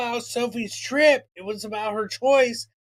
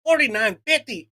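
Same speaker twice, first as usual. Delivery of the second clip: disbelieving echo of the price, a bit louder; incredulous repeat; 2 semitones higher, 4 dB louder than usual. Retold or imitated. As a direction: throw the number back in disbelief. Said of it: "I said, "What?".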